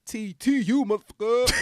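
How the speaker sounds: excited shout. Real, not acted. Proud shout of his school.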